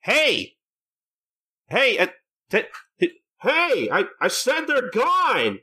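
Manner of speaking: mock Katsura yelling, the last line slow; frantic shouting. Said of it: "he's like".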